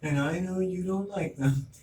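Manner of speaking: a hint of a knowing mother, drawn out; mock mom. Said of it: "I'm like".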